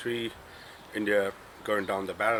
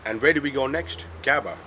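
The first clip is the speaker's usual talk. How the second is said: excited; 5 semitones higher, 6 dB louder than usual. Real, not acted. Building to the Gabba punchline.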